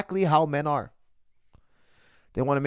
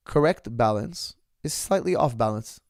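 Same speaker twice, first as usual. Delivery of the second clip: slow, weighty, each word laid down; slow wise quote; slower than usual. Acted. Host quoting Rumi to his viewers, slow and weighty. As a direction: deliver the saying slowly like a sage.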